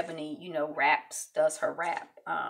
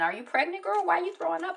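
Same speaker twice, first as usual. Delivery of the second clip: mock shock; 11 semitones higher, faster than usual. Sydney teasing her sick friend.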